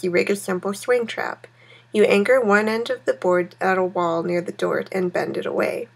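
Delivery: steady read-aloud narration voice; story narration. A narrator's reading. Reading game story text.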